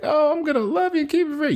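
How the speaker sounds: very high, hammed-up adoring voice; mock gushing. Retelling the Nice Pool moment, hammed-up gushing. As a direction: put on a high falsetto doting voice.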